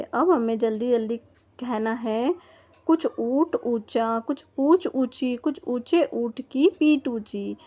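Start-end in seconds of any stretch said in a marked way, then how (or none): 2.9-7.6 tongue twister said slow and even; slowly. Shown as a demonstration. Teacher saying the tongue twister slowly for children. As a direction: lay out each word of the twister. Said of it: "मैं तो धीरे बोल रही हूँ".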